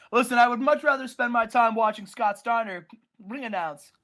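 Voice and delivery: building loud rant that slows on tyrant; ranting Stallone. Retold or imitated. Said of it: "he's like".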